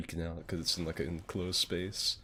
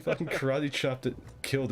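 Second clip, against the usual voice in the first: emphatic retelling; 7 semitones higher than usual. Retold or imitated. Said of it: "no, it was more like".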